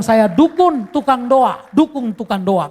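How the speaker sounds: mock loud exclaiming crowd. Onlookers exclaim about the healer.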